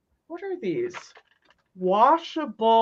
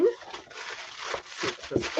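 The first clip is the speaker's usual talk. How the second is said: whispered; 13 semitones higher, 10 dB quieter, much slower than usual. Real, not acted. Peeking into wrapping.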